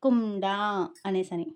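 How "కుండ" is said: కుండ with a nasal ణ before డ; nasal cluster. Shown as a demonstration. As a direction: sound the nasal through the nose in కుండ. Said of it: "ముక్కుతో పలికే ఒక అనునాసిక ధ్వని".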